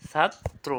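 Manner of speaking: "ছাত্র" as ছাত্, pause, ত্রো; split pronunciation. Shown as a demonstration. Teacher telling students to look, "ছাত্র" split in two. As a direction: break "ছাত্র" into two pieces. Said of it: "এটা দেখো".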